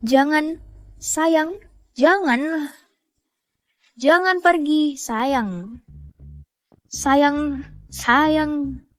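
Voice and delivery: clutch at him as he walks away; desperate pleading. Acted. Begging husband not to leave. (memohon putus asa agar suami tidak pergi)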